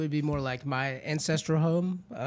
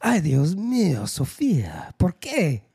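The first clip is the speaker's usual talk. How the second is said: hammed-up Spanish dismay; mock lament; 3 dB louder, slower than usual. Bemoaning Sophia's heel injury, mock lament. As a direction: lament it with swooping pretend despair.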